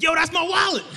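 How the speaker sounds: high, loud accusing yell; dream stranger shout. Retold or imitated. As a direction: call him out in the line.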